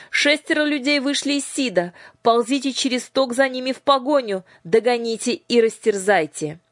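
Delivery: high, loud orders to chase; commanding shout. A narrator's reading. Headmistress sending lamias after the fugitives, loud commanding shout. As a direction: bark the hunt order.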